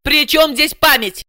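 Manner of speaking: high-pitched irritable snap; barked retort. A narrator's reading. Client to translator doubting her memory, barking. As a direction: snap back, offended. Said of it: "рявкнула Ася".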